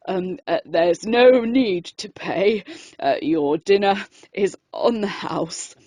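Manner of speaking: nervous shop owner stammering; halting, frightened reply; timid as a mouse. Acted. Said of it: "timidly as a mouse".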